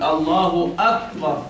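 "أكبر" with the ك thickened toward a ق; slow demo of "أكبر" with a heavy, emphatic k; heavy kaf. Shown as a demonstration. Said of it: "ولو فخم الكاف أصبحت قاف".

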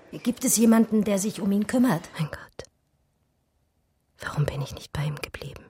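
hushed pleading whisper; despairing whisper. Acted. Woman distraught about imprisoned lover.

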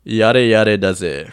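slow Japanese "Yare yare" with English "does it"; "Yare yare" said slowly, Japanese style; Japanese phrase. Shown as a demonstration. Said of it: "it's three words".

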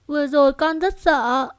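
put-on light high little girl; a scared child confiding. Daughter telling mother she was scared, light child voice.

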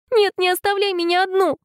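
high, panicked plea. A narrator's reading. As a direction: beg him not to leave. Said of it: "в панике воскликнула Алекс".

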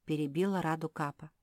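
usual speaking voice

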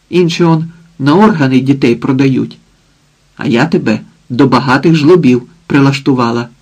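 mildly acted coarse mother threatening; lightly voiced drunk mother. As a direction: threaten her daughter with a mocking snarl. Mother lectures daughter.

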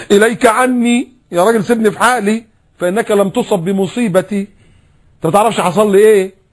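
high, loud tearful protest; hammed-up grieving woman pushing him away; mock sobbing widow, high-pitched; weeping woman. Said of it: "فقالت وهي بتبكي".

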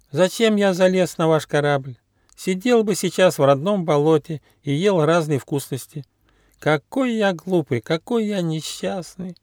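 high, whiny platypus voice, slowing as it ends; whining. A narrator's reading. Platypus waddling behind the gnome, whining to himself. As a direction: moan in a high pitiful squeak. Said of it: "захныкал утконос".

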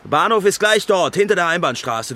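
loud, dismissive reply. Acted. Author to his lover, telling her to walk to the station, loud and dismissive.

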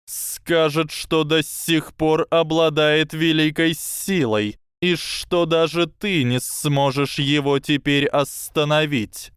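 high, slow serpent voice; a hissing snake, slow and sly. Acted.

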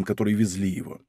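ordinary delivery, nothing marked

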